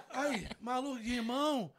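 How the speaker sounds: words pushed out through laughter; laughing. Real, not acted. Still cracking up while telling friends the story, laughing through it. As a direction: keep laughing as you talk.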